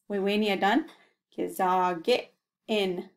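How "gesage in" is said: Gesage in stretched out slowly; slow model word. Shown as a demonstration. Teacher repeating the word slowly. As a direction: draw out Gesage in for learners. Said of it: "Say that slowly".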